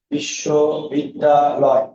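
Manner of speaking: very slow বিশ্ববিদ্যালয়, pausing between বিশ্ব, বিদ্যা and লয়; teacher showing the wrong three-part split; stopping in three places. Shown as a demonstration. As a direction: break বিশ্ববিদ্যালয় into three halting chunks. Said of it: "থেমে থেমে তিন জায়গায় থামতে হয়".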